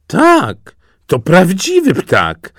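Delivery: high, loud, drawn-out confirmation; emphatic assurance. A narrator's reading. Bearers answering the princess, emphatic assurance. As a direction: call it out high and slowly.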